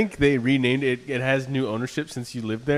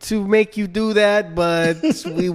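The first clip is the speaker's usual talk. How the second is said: a lightly voiced veiled threat, higher pitched; menacing like a shady landlord, half-joking, a bit higher; mock threatening clerk; 5 semitones higher than usual. Clerk hinting a threat to the tenant, lightly higher mock menace.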